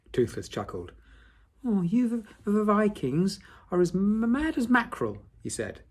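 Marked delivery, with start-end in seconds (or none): 1.7-5.2 little dragon voice. Acted. Toothless chuckling, stuttering.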